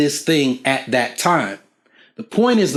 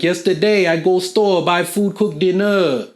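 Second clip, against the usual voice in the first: corrected imitation of Thai friend's English; 2 semitones higher than usual. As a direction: bounce each chunk, rising then falling. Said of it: "More, it was more like".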